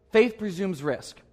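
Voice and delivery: slowed restatement of "Faith presumes risk". Shown as a demonstration.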